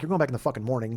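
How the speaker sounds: blunt, plain snap; blunt retort. Pretend. Driver's unspoken reply to a fretting passenger, as a flat blunt retort. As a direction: say what you really think, flatly. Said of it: "but I didn't say it like that".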